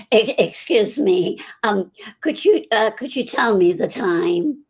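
slow, halting, timid imitated request; imitating Marion's voice. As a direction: lightly mimic a shy woman asking the time. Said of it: "I just used that voice".

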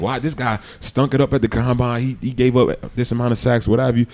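mildly indignant questions to the agent; acting out an annoyed call; pissed complaint. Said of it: "and I'm pissed".

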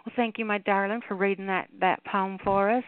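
slipping playfully into a Southern drawl. Real, not acted. Host thanking a poet for reading, in a Southern drawl. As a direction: thank them with a light Southern lilt. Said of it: "Why am I talking all seventy now?".

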